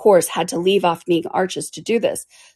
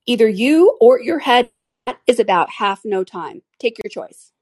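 imperious plummy grande dame; 5 semitones higher, 5 dB louder than usual. Acted. Queen threatens the Duchess.

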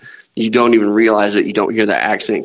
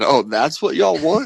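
slow, higher Southern drawl in imitation; mock Southern coach; 6 semitones higher, slower than usual. Co-host imitating coach looking at Coach O, mock Southern accent. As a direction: draw it out like a Southern coach sizing up the locals. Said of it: "This dude looked at Coach O and said".

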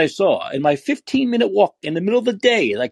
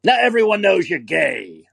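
mild mock holler, pitched up; higher-pitched imitation of a street yeller; retold yell; 4 semitones higher than usual. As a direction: imitate a heckler calling across the street. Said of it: "and he yells at me".

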